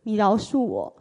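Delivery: fervent loud repentance, voice straining; loud confession. Retold or imitated. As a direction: cry out your sins to God. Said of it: "我就大声地说".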